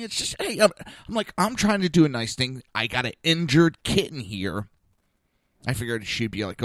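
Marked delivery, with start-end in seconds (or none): 1.4-4.7 retold exasperated plea, raised voice; rising temper. Man retelling his plea to the shelter lady, temper rising. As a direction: push the point with mounting irritation. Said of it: "my temper is rising at that point".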